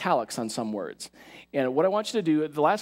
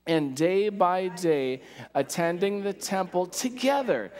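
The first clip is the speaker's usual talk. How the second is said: slow, raised group reading, as if discovering something amazing; aha-moment reading; 4 semitones higher, much slower than usual. Shown as a demonstration. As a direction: read it like the light bulb is going on. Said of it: "emphasize it in a way that's like an aha moment".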